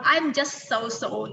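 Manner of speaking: very slow, drawn-out so-so; slow model phrase. Shown as a demonstration. Teacher slowly models a casual reply for students. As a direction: stretch each syllable for learners. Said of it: "Bisa bilang".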